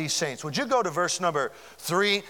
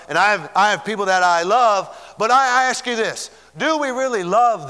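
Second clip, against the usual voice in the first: forceful preaching; 2 semitones higher, 5 dB louder than usual. Real, not acted.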